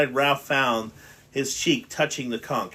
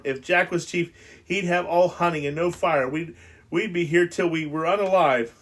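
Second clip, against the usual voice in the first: a touch higher and squeakier; voice rising to a squeak; 5 semitones higher than usual. Acted. Piggy frets to Ralph in the dark, voice rising to a squeak. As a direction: fret until the voice climbs. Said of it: "His voice ran up to squeaking".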